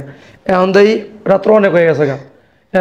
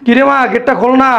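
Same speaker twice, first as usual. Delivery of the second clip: raised pitch, calling through a door; 4 semitones higher than usual. Acted. Father outside calls his daughter to open the gate, calling out. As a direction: call to be let in.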